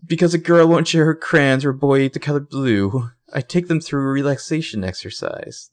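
a put-on British teacher soothing kids; imitating weird British accent. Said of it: "This guy has the weirdest accent".

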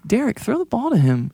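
calling out. Acted. Yelling at his fantasy QB.

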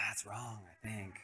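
very soft, hesitant reply; timid objection. Retold or imitated. Boy to friend plotting egg theft, timid objection. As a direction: object softly, barely daring.

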